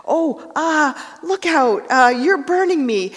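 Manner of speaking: a frightened ghost recoiling from the angel's heat; pained ghost. Acted. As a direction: flinch back as if scorched. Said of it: "said the ghost".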